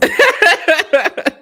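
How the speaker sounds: high, bright burst of laughter; joyful laugh. Real, not acted. Mother telling how her son began talking, joyful laugh. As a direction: laugh out in relief and joy.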